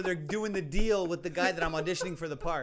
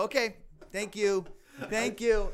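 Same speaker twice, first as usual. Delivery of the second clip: polite brush-off; 4 semitones higher, slower than usual. Retold or imitated. Mimics curt dismissal at audition.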